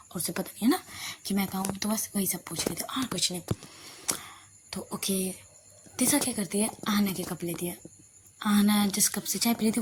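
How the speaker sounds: usual speaking voice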